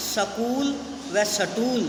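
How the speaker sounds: सकूल and सटूल with a vowel slipped in before the s; wrong pronunciation. Shown as a demonstration. Teacher demonstrating the wrong form to students, sounding out the inserted vowel. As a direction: say सकूल as sa-kool, सटूल as sa-tool. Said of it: "वे स्कूल व स्टूल का उच्चारण ... की भांति करते हैं".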